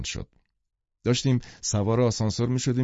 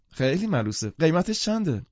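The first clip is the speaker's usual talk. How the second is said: eager, lifting into the question; enthusiastic delight; 7 semitones higher than usual. Acted. Mrs Wilson asking the puppy's price, enthusiastic. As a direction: coo over it, then ask keenly. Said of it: "با شور و شوق گفت".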